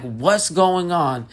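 high, drawn-out retold panic; mock freak-out. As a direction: act out freaking out, slowly stretched. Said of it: "freaking out".

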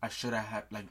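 low, quiet admission; subdued regret. Retold or imitated. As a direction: own up quietly to a failing. Chiron's regretful words to Percy.

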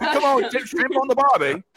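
a light mock Australian accent. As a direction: toss off a hammed-up Aussie line. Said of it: "use Australian accent".

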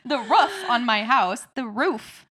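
"roof" said slowly; slow careful "roof"; roof demo. Shown as a demonstration. Co-host demonstrates the word "roof" slowly. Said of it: "how you would pronounce R O O F".

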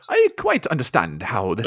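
slow, mock upper-class drawl; lightly hammed-up plummy gent; posh Hugh Grant. The co-host joins in as posh Hugh Grant, slow mock drawl. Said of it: "So posh".

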